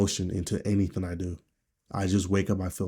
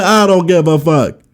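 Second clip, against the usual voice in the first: higher, louder, hammed-up yell; shouted retort; 8 semitones higher, 12 dB louder than usual. Shown as a demonstration. Redoing his outburst at people who lecture him, hammed-up shout. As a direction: bark it back at them in mock fury. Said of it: "I forgot how I did it".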